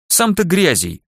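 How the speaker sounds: sharp high growl of a comeback; growled retort. Acted. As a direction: snap it back with a growl. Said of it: "рыкнула кочка".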